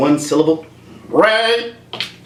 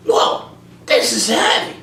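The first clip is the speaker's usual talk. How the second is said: higher, slow, stunned; awed Marty; 7 semitones higher than usual. Acted. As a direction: breathe it out amazed. Marty's catchphrase in skit.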